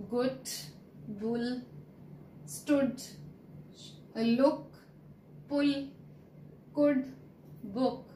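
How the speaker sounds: Good, bull, book with a short, light oo; teacher modelling the short oo sound. Shown as a demonstration. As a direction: keep the oo short in each word. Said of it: "lesser stress on oo sound".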